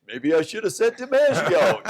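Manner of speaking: the dog apologizes for its answer; lightly voiced talking dog; sheepish dog. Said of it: "And the dog goes".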